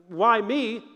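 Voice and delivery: mock self-pitying "Why me?"; a light whiny "Why me?", feeling sorry for yourself; pitiful whine. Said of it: "in a pitiful way".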